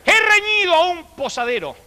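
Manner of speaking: hammed-up formal teacher; mock teacher's dictation. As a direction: recite it like a prim old schoolmistress. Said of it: "y dijo".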